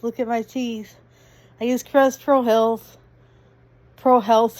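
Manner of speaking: talking round a cough drop; mouth full. Real, not acted. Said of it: "I can't talk with the cough drop in my mouth".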